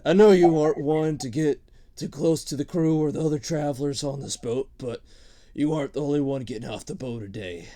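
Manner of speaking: a hint of an old sailor orc saying goodbye; old orc captain. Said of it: "Scrags looks at you and he says".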